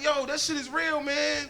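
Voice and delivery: high, loud laughing exclamation; loud laughing reply. Retold or imitated. Neighbor laughing loudly at his electrical problem, high shout. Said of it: "He laughed like".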